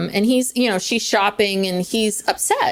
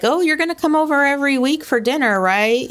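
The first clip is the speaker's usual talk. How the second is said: quick, eager pushy mom; 5 semitones higher than usual. Retold or imitated. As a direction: press him brightly to agree. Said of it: "her mom is like".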